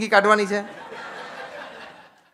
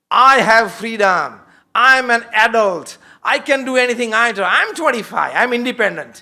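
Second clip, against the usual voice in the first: put-on defiant young adult; 2 semitones higher, 4 dB louder, much slower than usual.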